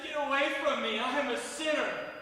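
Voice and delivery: begging. Retold or imitated. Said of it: "and I said".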